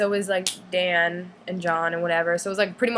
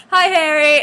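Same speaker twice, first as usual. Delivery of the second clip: excited hi; 7 semitones higher, 9 dB louder, slower than usual. Retold or imitated. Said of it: "Oh, I go".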